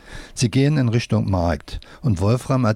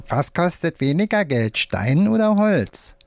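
puppet voice; 7 semitones higher than usual. A narrator's reading. Puppet quizzes the boy.

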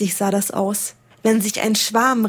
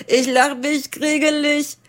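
higher, mocking raven voice; striped raven mocking the others, higher and scornful; croaking scornful raven; 6 semitones higher than usual. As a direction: scoff at the others like a proud bird. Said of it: "krächzte ein rosagrün gestreifter".

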